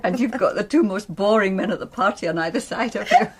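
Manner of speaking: laughing through the line. Acted. Hostess joking about boring men at parties, laughing. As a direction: let a laugh break through.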